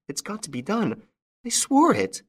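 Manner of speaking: put-on an old widow bound by her oath; determined widow. A narrator's reading. Widow voiced in story.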